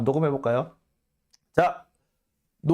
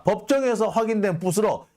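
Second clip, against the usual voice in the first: 법정에서 pitched high like an announcing reporter, falling end; 법정에서 stated high and falling, mock news tone; mock reporter read; 5 semitones higher than usual. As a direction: declare it like a smug headline. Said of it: "부시럭거리는 녹음이 됐다".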